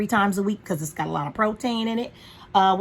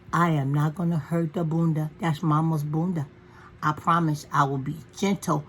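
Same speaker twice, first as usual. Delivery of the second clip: gentle promise; 4 semitones lower than usual. Retold or imitated. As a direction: reassure him tenderly. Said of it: "I always tell him".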